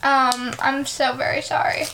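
munching while speaking; chewing while talking. Real, not acted. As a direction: talk through a mouthful of candy. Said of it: "if you hear me munching and crunching".

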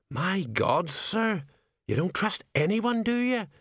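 put-on high, anxious old sergeant voice; a fretful sergeant aghast at the choice; Sergeant Colon. Sergeant protests to his commander, high and anxious.

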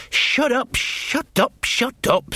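high, panicky plea for silence; agitated outburst. Acted. Jason, uneasy on the hill, silencing his friends, high agitation. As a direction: pitch jumps right up, rattled and insistent.

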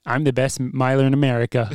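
lightly attempted Scottish accent; mock Scottish accent, only half there; Josh Kerr impression. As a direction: have a rough go at a Scottish runner's voice. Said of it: "here's my Josh Kerr impression".

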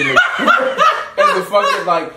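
real laughter breaking through the words; can't stop laughing while telling it. Real, not acted. Retelling scene, cracking up.

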